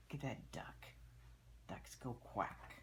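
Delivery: soft whispered aside; hushed pointing-out whisper. Real, not acted. Adult whispers to child over book.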